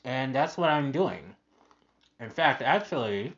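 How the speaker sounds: talking through a mouthful; words round a bite of food; mouth full. Real, not acted. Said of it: "sorry, I got my mouth full".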